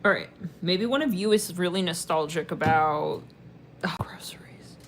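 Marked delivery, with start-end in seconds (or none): 3.8-4.8 soft, voiceless whisper; whispered aside. Real, not acted. Reader noting a sudden impression of groceries, whispered. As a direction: whisper it to yourself.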